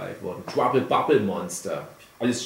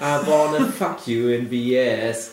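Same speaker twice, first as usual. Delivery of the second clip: radio song quote; slower than usual. Retold or imitated.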